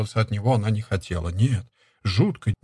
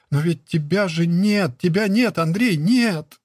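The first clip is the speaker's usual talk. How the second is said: slow anguished moan, rising higher on each нет; moaning despair; 6 semitones higher, slower than usual. Acted. Nastyona cries out to Andrey that he is gone, slow anguished moan. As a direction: draw it out like a wound reopening. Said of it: "Простонала Настёна".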